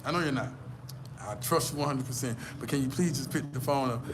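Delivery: mild, soft coaxing; suave pleading. Shown as a demonstration. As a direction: coax the lover sweetly. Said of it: "You got to be like this here".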